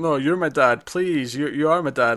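earnest, begging, imploring pleading tone. Retelling a scene, imitating Sonny Jim pleading. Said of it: "he's pleading with them".

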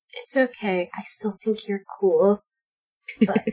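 soft, hushed half-whisper under the breath. Speaking in character to a dandelion bud, leaning down: half-whispering. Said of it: "leans down and whispers to the dandelion".

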